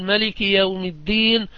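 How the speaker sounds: ملك said with a short a after the m, no alif; Malik with short a. Shown as a demonstration. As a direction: clip the vowel in ملك short. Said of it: "حذفوا الألف".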